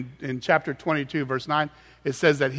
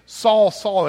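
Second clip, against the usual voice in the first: "Saul, Saul" higher and punched; emphatic repetition; 4 semitones higher, 4 dB louder than usual. Shown as a demonstration. Preacher showing the emphasis of the doubled name, emphatic. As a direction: hit both words of "Saul, Saul". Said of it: "it's really emphatic".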